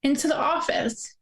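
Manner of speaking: trying not to cry. Real, not acted. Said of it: "I'm gonna try not to cry".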